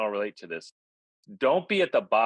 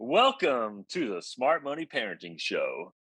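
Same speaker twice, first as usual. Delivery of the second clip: smooth announcer welcome; radio DJ voice. Shown as a demonstration. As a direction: roll out the show name like a radio host. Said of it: "that was the radio voice".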